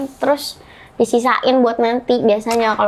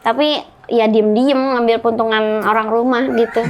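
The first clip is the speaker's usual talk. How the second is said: talking while smoking; words around a lit cigarette; cigarette in mouth. Real, not acted. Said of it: "sambil ngerokok boleh?".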